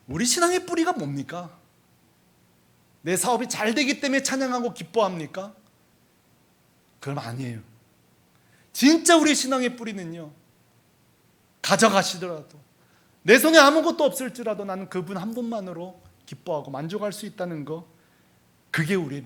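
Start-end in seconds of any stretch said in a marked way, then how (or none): 0.1-5.5 high-pitched rhetorical questioning; challenging preaching. Real, not acted. Preacher questioning the congregation's faith, raised challenging voice. 8.7-17.9 raised pulpit voice with firm conviction; emphatic preaching. Real, not acted. Pastor telling believers what faith rests on, emphatic preaching.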